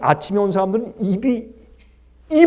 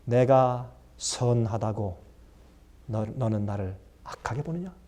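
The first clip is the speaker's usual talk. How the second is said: master's rebuke; 10 semitones lower, 9 dB quieter than usual. Acted. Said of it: "예수님께서 말씀하신 것처럼".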